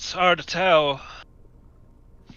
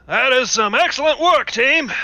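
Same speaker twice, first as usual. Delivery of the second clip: high, bright cheering; excited praise; 9 semitones higher, 4 dB louder than usual. Acted. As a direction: cheer the team on. Character praises team loudly.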